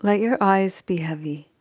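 unhurried sleep-meditation voice with long pauses; measured Yoga Nidra guidance, phrase by phrase; guided meditation. Acted. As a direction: guide them gently into rest, leaving long silences.

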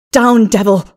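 loud, forceful command; cried out. A narrator's reading. Narrator flinging off Lilith, cried out sharply. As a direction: cry out to drive off an attacker. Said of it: "I cried".

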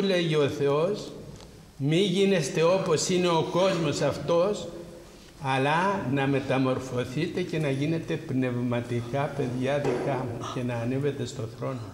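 normal talking voice

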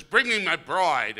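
slow, grand bellow of a vain general; pompous general. Retold or imitated. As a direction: boom it out like a strutting soldier. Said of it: "he says".

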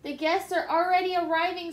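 a lightly voiced squealing pig. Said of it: "squealed Ham the pig".

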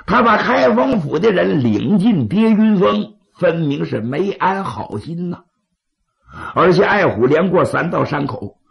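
sly, persuasive schemer; scheming adviser. Acted. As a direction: coax the chiefs toward killing. Scheming adviser speaks to chiefs.

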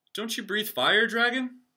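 very high, loud, stammering squeak; squeaky knight. Acted. Frightened knight challenging the dragon, squeaky. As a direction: squeak bravely through the stutter.

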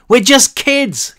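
very high, slow, loud plea; desperate shout. A narrator's reading. Cal pleading with armed police, desperate high shout. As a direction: beg them not to shoot. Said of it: "Cal shouted".

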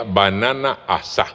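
"asá" accented on its last vowel; "asá" cut down from asada, ending on á; Papiamento pronunciation. Shown as a demonstration. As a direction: say "banana asá" as written, stress on the final á. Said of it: "escrita como suena, A S A con tilde".

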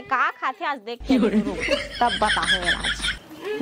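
angry scolding wife. Acted. Wife threatens her drunk husband.

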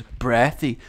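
one word in mock Welsh; Welsh accent. Shown as a demonstration. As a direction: say it with a Welsh lilt. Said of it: "all I could say in a Welsh accent".

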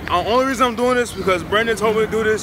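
nervous and keyed up; scared. Real, not acted. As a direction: talk fast through rising nerves. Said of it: "I'm scared as fuck".

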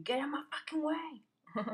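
breathy annoyed whisper; whispered irritation at the dog. Real, not acted. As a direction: hiss it under your breath.

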